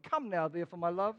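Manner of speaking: mock romantic husband. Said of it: "Say that to your wife".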